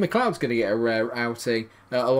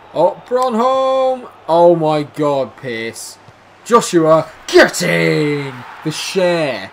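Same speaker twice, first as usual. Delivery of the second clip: loud, high celebrating cries; ecstatic goal shout; 5 semitones higher, 12 dB louder, much slower than usual. Real, not acted. Celebrating the goal, roaring with joy. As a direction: roar it as they score.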